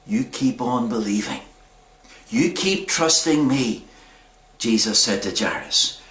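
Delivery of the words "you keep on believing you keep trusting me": low, soft, measured words; steady him quietly, leaving space between phrases; calm reassurance. Retold or imitated. Jesus reassuring Jairus after the news, calm and gentle.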